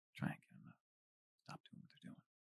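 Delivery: barely audible whisper. Narrator voicing a character who leans down to another, very quiet whisper. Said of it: "I couldn't hear that".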